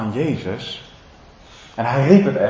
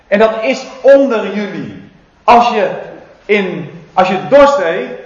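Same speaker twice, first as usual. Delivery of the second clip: voicing Jesus; 4 semitones higher than usual. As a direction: speak it out to the crowd. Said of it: "zegt Jezus".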